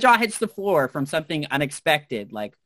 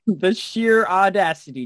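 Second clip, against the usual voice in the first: raised-pitch, playful indignation; mock outrage; 4 semitones higher, 4 dB louder than usual. Host teasing JC over swords, mock outrage. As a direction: act scandalized at a friend's cheek.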